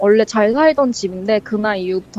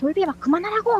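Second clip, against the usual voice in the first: high, angry mock yell. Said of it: "막 이러면서 막 화를 냈대요".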